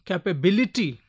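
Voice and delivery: "capability" with bil emphasized; stress on bil. Shown as a demonstration. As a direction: lean on bil, just before the ending of "capability". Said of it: "that is given more syllable stress".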